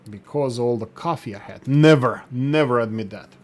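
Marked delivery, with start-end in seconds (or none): 1.7-3.3 loud protest. Real, not acted. Jokes about coffee.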